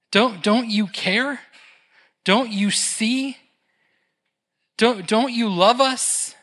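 hurt pleading. Acted. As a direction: plead as if he doesn't care. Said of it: "what they're saying is".

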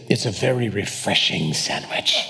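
a hint of an Armenian café owner's accent. Café owner recommending the sandwich, light Armenian accent. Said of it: "the guy said in a great accent".

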